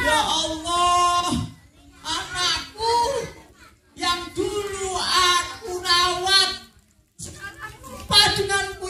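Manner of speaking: mother's prayer. Acted. Mother praying that her son be cursed, slow sung plea. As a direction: pray for the curse with grief. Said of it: "Ibunya Alin kemudian berdoa".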